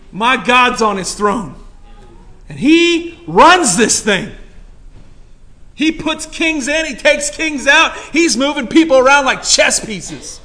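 loud, high, ringing sermon delivery; fired-up preacher, rising and pounding the point; preaching at full force. Real, not acted. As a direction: preach it out to the whole room.

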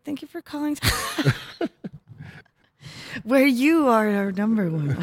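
lightly put-on polite phone agent; a hint of a call center greeting; customer service voice. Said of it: "my customer service voice".

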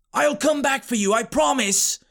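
put-on high little boy's voice; earnest boy. A narrator's reading. Boy reassures his trapped uncle, earnest boy voice. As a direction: promise like a determined child.

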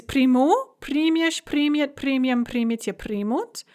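приму stressed on the end, then примешь on the first syllable; shifting stress demo. Shown as a demonstration. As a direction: show the stress jump from ending to stem. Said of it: "Some of them have shifting stress".

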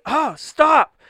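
high, loud outburst; re-enacted drunken yell; yelled protest. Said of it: "I, like, yelled".

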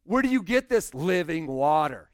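loud mocking challenge, a touch of scorn; sarcastic. Pastor voicing the woman at the well, sarcastic and loud. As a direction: throw the question back at him with sarcasm. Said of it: "You can almost hear it in her voice".

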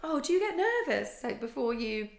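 a hint of sweet condescension; mock concerned voice. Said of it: "They were like".

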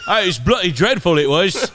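put-on wobbly English accent drifting toward Irish; mock British accent with an Irish lilt; almost Irish accent. Co-host answering the bad attempt, almost Irish accent. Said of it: "That's almost like Irish".

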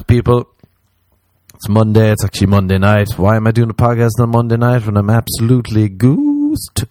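loud worked-up rant; loud exasperated. Real, not acted. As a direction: throw it out loudly.

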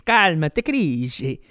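mock coach settling his players; lightly acted touchline call; imitating Simeone Inzaghi. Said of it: "Simeone Inzaghi tells his players".

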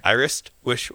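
"Irish wish" rushed and slurred together; quick tongue twister. Shown as a demonstration. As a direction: rush "Irish wristwatch" into "Irish wish". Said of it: "Say it a little quicker".

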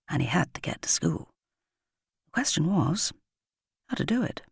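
tense whisper. A narrator's reading. Narrator whispering Patrick's resolve before the swan. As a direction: hush it like a held breath.

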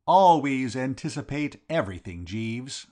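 a master gently laying down the law; a little sternly. Acted. Bertie scolding Jeeves for his fault, a little stern. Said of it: "I said a little sternly".

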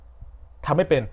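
high shout to the teacher, very drawn out; classmate calling out. Retold or imitated. Classmate shouting to the teacher to tell on him, high loud call. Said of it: "ตะโกนขึ้นมาว่า".

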